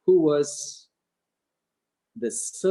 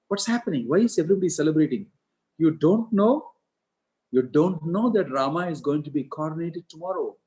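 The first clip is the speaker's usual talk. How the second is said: higher, urgent questions, quick at first; surprised questioning; 5 semitones higher, 3 dB louder than usual. Acted. Manthara questions a servant girl, high and urgent. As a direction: press the girl for answers, pitched up.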